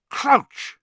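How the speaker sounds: high, loud outburst; shocked exclamation. A narrator's reading. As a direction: cry the name out in shock. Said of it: "Snape said, stopping dead".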